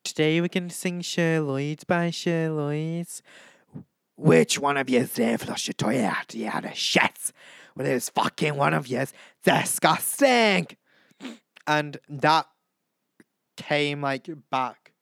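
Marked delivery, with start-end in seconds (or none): 0.0-10.7 put-on Irish standing in for Scottish; Irish accent. Vlogger mimicking a Scottish mum and girls, put-on Irish accent. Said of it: "I can only do Irish".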